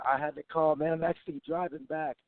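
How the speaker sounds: hoarse, worn-out voice; lost voice. Real, not acted. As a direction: talk with your voice mostly gone. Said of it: "Sorry, my voice is gone".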